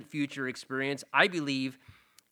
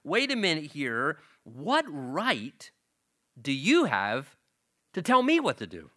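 high, loud rebuke from on high; indignant God; 3 semitones higher, 3 dB louder than usual. Retold or imitated. God scolding a person who forgot who is in charge, louder and higher. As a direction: put the child back in its place as God. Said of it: "it's almost like God is saying".

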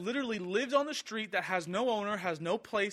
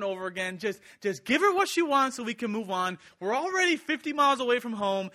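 louder, complaining, fed-up travellers; mock-whiny impatient disciples; impatient whining disciples; 3 semitones higher, 5 dB louder than usual. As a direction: nag him to hurry up and move on. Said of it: "they're sounding like this".

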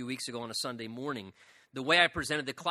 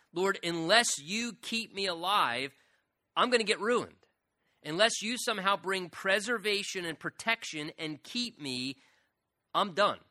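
pleading cry; 5 semitones higher, 3 dB louder than usual. Acted. Preacher voices David's desperate plea.

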